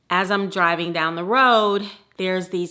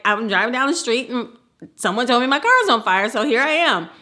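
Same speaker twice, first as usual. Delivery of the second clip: flustered; 4 semitones higher, 4 dB louder than usual. Retold or imitated. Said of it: "I was like".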